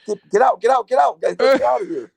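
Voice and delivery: high, urgent mock panic; retold panic. Man retells urging his family to leave, panicked. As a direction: act out a frantic rush to escape. Acts out panicked escape in story.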